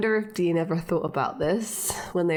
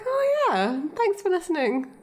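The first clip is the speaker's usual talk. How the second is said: sarcastic; 10 semitones higher than usual. Pretend. Mock reply to the show.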